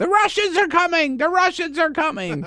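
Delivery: very high-pitched, loud hollering. Retelling hearing Donald Trump from the balcony: imitating Donald Trump hollering. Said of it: "I could hear him hollering".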